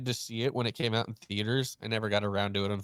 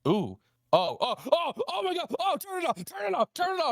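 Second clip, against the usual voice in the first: high, panicked squeals of turn it off; freaking out at a gory clip, voice shooting up. Retold or imitated. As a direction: girlfriend squealing in horror at the video. Girlfriend panics at gore clip.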